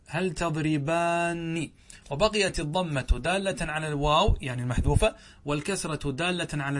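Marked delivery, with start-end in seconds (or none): 0.1-1.7 "تضربان" with long aa and doubled n; slow demo of "تضربان", ending -aanni; resulting form. Shown as a demonstration. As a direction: stretch "تضربان" as tadribaaanni. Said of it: "فصار".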